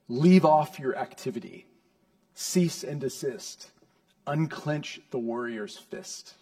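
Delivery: emphatic, slowing into measured orders; firm, deliberate imperative; forceful command. Acted. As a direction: give each order weight, drawn out. Commentators' forceful renderings of the command.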